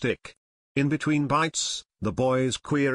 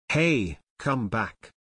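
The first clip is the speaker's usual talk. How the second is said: excited call; slower than usual. Acted. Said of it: "he called excitedly".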